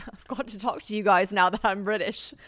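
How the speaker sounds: hammed-up bad British accent; playful fake British. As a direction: put on a joky, poor British accent. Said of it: "I have the worst British accent impression".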